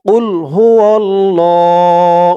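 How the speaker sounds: কুল হু আল্লাহ with the wa sound dropped; wrong pronunciation. Retold or imitated. Teacher imitating the common mistake in this verse. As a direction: run হু straight into আল্লাহ. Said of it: "এরকমভাবে বলে".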